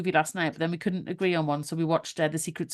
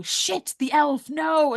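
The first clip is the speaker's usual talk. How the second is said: high mock panic, louder at the end; panicked realisation; 8 semitones higher, 5 dB louder, much slower than usual. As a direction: gasp it out as you remember the elf. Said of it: "you just get into bed and you go".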